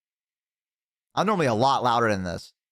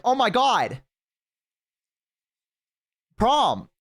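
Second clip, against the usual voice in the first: excited mom; 11 semitones higher, much slower than usual. Retold or imitated. Mom learning her son's prom, high excited squeal. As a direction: squeal it like a thrilled mother. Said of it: "She was like".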